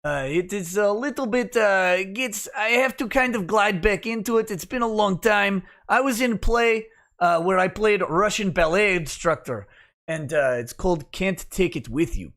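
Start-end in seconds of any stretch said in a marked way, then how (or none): 0.0-9.7 lightly put-on Russian accent, pitched up at first. Shown as a demonstration. Showing chat an old stage role's voice, Russian accent. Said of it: "I can do Russian accent".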